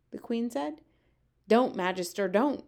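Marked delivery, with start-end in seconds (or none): 1.5-2.3 crying out. Acted. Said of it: "cried the B F G". 2.3-2.7 crying out. Acted. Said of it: "cried the B F G".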